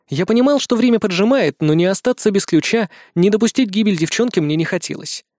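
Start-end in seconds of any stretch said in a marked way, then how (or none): none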